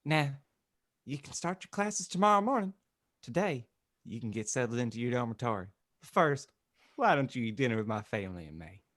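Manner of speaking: lively announcing reverend; lightly commanding character voice; authoritative Dumbledore. Acted. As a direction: lay out the plan with mild authority. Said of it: "announced authoritatively".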